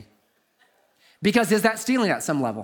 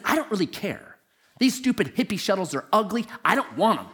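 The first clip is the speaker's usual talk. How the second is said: put-on Texas accent; 3 semitones higher than usual. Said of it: "Typical Texan".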